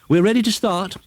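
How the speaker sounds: high witch calling out. Acted. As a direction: call the race to begin. Called out.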